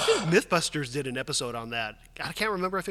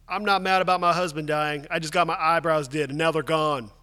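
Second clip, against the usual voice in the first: a touch louder, lightly voiced wife; quoted wife; 5 dB louder than usual. Reading out the widow's statement about her eyebrows, lightly acted.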